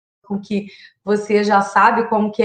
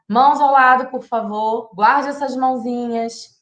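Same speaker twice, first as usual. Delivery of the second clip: gentle instruction. Shown as a demonstration. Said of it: "a gente vai falar".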